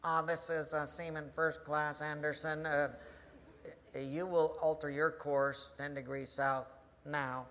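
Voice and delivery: unruffled, halting reply at normal volume; slightly low, hesitant sailor; lightly voiced seaman. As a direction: answer a bellowing superior mildly. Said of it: "he hears this voice".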